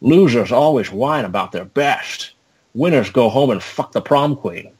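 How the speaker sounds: drawn-out Scottish brogue with slurred s; scornful Scottish movie-hero impression; Sean Connery. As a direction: sneer it slowly as a Scottish action veteran. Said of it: "Sean Connery turns back to him and says".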